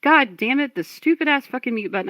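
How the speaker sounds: annoyed at own slip, voice jumping up; exasperated cursing. Real, not acted. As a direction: curse at the gadget that failed you. Discovers they were on mute.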